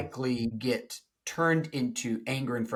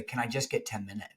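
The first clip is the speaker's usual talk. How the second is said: quiet request; 2 semitones lower, 6 dB quieter, faster than usual. Retold or imitated. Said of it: "withdrawing partner say".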